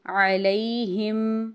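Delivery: علیہم said slowly, with the ی glided softly; soft leen. Shown as a demonstration. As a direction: soften the یا in علیہم. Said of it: "اس کو بھی ہم لمبا نہیں کریں گے". (علیہم میں لین نرمی سے)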